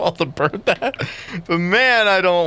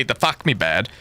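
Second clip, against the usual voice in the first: Australian accent; 5 semitones lower than usual. Shown as a demonstration. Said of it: "go back to Australian accent every time".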